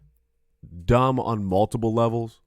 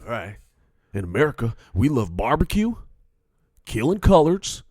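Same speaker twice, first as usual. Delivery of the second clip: swaggering mock-patriot proclamation; gunslinger patriot; 3 semitones higher than usual. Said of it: "like you got six shooters".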